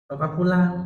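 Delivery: high, loud call to come home; urgent retold plea. Son on the phone calling his father home, urgent.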